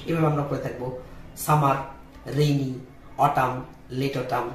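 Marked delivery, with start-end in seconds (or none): 1.4-4.5 সামার, রেইনি, অটাম said the everyday Bangla way, slow; plain local-style সামার রেইনি অটাম; usual Bangla pronunciation. Shown as a demonstration. Teacher shows the common Bangla way first. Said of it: "আমরা এভাবে উচ্চারণ করে থাকি".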